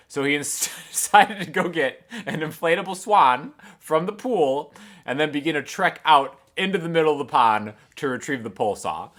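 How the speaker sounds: ordinary talk, nothing marked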